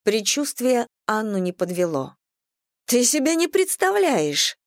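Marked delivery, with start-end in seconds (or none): 2.9-4.6 high, slow, outraged delight; laughing at the outrage; amused indignation. A narrator's reading. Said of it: "веселилась и негодовала Татьяна". (весело-возмущённо)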